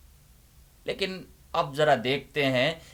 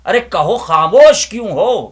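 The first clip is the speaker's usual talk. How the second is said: higher and much louder, challenging; demanding shout; 6 semitones higher, 13 dB louder than usual. Acted. Inner voice demanding the silent listeners answer, shouting.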